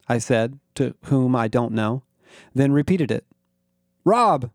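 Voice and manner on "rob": high-pitched, panicky call, moderately loud; freaked yell. A narrator's reading. Narrator calls Rob about the alien, freaked yell. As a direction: call out as if gasping in alarm. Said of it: "I yelled, my voice gasping and freaked".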